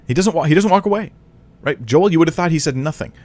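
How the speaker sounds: forceful indignant correction; emphatic rebuttal. Real, not acted. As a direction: cut down the false claim. Rebutting Joel's false claim.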